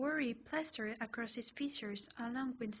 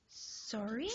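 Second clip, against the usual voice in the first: nervous apology. Acted. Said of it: "nervously smile".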